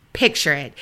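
low, scene-setting impression of co-host; Donna. Opening a listener's paranormal story, mimicking the co-host low. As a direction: drop the pitch to set up a story. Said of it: "In my Donna voice".

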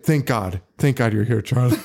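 low, earnest mock gratitude; dead serious. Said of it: "She's being serious".

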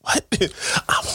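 hushed, unvoiced half-words; imitated partner whispering. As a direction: whisper the hesitation. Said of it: "why are you whispering".

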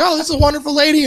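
high, quick voice for a delighted dog; put-on high doggy chatter; happy dog voice. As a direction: speak as a dog thrilled by a new friend. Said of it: "and the dog's like".

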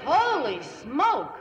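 slow, drawn-out amazement; stretched-out holy smoke; astonished. Acted. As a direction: gape at it out loud. Astonished at service.

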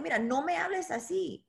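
firm, self-assured refusal; confident. Retold or imitated. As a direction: set the boundary calmly but firmly. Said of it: "y tener la confianza".

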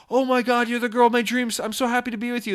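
high-pitched lovestruck excitement; mock gushing. Smitten boyfriend answers his girlfriend, hammed-up delight. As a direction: gush it high, as if overjoyed.

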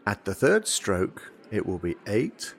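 slow, formal recorded announcement; talking clock phone voice. Retold or imitated. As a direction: read the time like the speaking clock. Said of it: "did you have this?".

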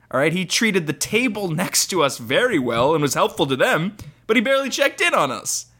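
high, slow, complaining reviewer voice; whiny reviewer voice. Acted. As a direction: read it like an offended customer. Reading one-star review aloud.

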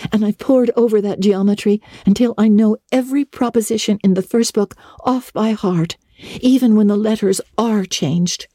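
a chattering schoolgirl; eager girl Anne. A narrator's reading. Anne announces her summer plans to Marilla, eager.

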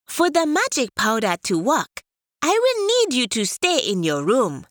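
a hint of a scheming tortoise. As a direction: coax him to stay put. Tortoise instructs leopard.

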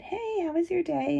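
high, light, casual greeting; feigned calm. Retold or imitated. Mother greeting the babysitter very calmly, light and high. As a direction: keep it breezy and unbothered. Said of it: "very calmly and I said".

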